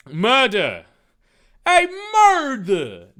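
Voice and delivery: high, loud drawn-out cry of murder; yelled. Acted. Dave raising the alarm at the party, yelling. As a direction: yell the alarm out high and stretched. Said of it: "Dave yelled".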